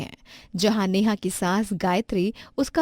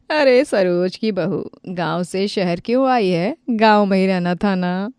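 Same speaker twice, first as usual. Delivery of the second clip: mocking neighbor; 4 dB louder than usual. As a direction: sneer at the village girl. Neighbor mocks the young wife.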